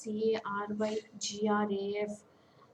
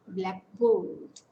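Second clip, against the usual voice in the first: slow blackboard with BOARD punched; stress on second part; 6 dB louder than usual. Shown as a demonstration. Teacher describing any black board, second part stressed. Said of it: "stress is falling on the second part".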